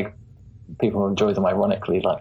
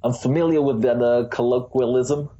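imitated American accent; 2 semitones higher than usual. Guest echoing the host's words back at him, mock American accent. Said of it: "It's the sock hop impression".

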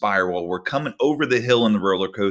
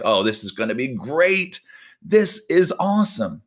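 excited; 3 semitones higher than usual. Retold or imitated. Acted excited player.

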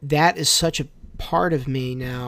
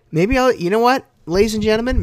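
announcer voice; 7 semitones higher, 5 dB louder, faster than usual. Pretend. Announcing to podcast audience.

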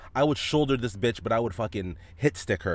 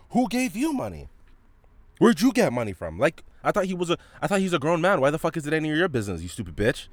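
higher, louder mock yell of the mother, fast at the end; mom yelling; 8 semitones higher, 3 dB louder than usual. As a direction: imitate her shouting at her son in the store. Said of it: "loud as shit".

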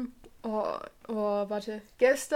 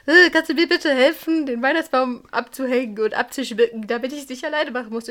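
mother asking; 2 semitones higher, 5 dB louder than usual. Retold or imitated. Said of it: "meine Mutter hat mich schon so den ganzen Tag gefragt, so".

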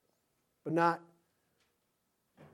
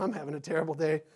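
weary sigh; 2 semitones lower, 9 dB quieter than usual. Pretend. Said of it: "we adults".

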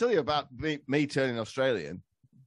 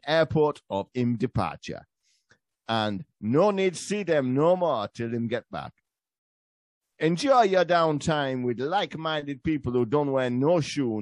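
put-on Jamaican accent. Podcast guest reads a spoof sponsor ad for barefoot holidays, Jamaican accent. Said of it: "Your accent's way better".

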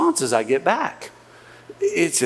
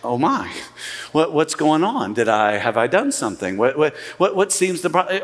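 flustered; 2 semitones lower than usual. Retold or imitated. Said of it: "that might shake you a little bit".

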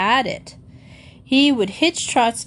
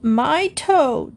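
pained yell; 6 semitones higher than usual. A narrator's reading. Boy yells to Missus Piggle Wiggle about his toe, pained yell. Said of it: "Geoffrey yelled".

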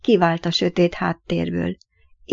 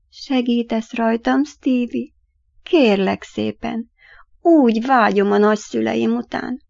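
sad pleading; 3 semitones higher than usual. Acted. Ghost boy begging Stevie to help him, sad and pleading. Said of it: "szomorú, könyörgő hangja".

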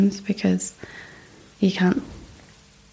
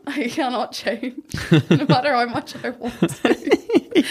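laughing; 3 semitones higher, slower than usual. Real, not acted. Laughing at own shyness.

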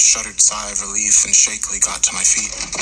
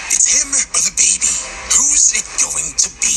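higher, booming ultimatum; thundering; 11 semitones higher than usual. A narrator's reading. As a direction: roar the ultimatum across the kitchen. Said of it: "his voice thundering across the kitchen".

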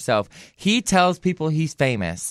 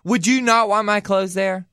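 diva pose; 5 semitones higher than usual. Shown as a demonstration. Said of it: "act like you're Kate Moss".

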